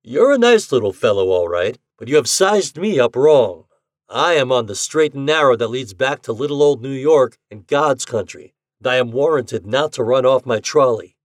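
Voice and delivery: confident. Acted. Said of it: "tone rang so confidently".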